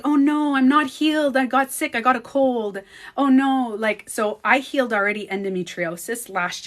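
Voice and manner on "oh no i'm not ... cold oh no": louder, higher imitated fretting; hammed-up dismay; mock panic. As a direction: fuss in a run of worried complaints. Acts out people panicking about healing.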